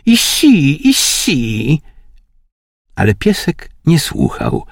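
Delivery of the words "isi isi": high coaxing coo at the dog. A narrator's reading. Lady of the house coaxes her dog, lightly voiced high coo.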